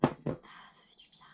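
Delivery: breathy, relieved ah after drinking; after a sip. Real, not acted. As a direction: sigh out after a gulp of water. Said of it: "Toujours un ah".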